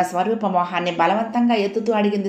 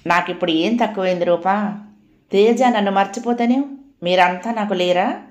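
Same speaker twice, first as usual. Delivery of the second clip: put-on gently comforting older sister; a light tender reassurance; affectionate. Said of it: "ఆప్యాయంగా".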